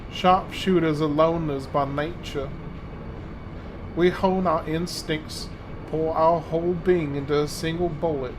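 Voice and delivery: southern belle. Acted. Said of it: "commit to doing that voice for him".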